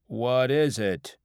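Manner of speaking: slow, loud, wary question; suspicious. Acted. Drinker eyeing a free mystery shot, suspicious. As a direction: draw the question out with distrust. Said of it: "Inger asked suspiciously".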